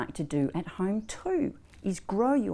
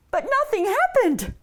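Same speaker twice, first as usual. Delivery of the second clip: high, singsong storyteller's dismay; exaggerated disappointment for children; dramatic letdown; 14 semitones higher, 5 dB louder than usual. A narrator's reading. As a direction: swoop up high, then fall away. Pull fails in children's story.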